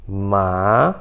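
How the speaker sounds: low "ma" swooping upward; second tone, rising. Shown as a demonstration. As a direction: lift "ma" up from the bottom. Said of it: "você vai subir o tom".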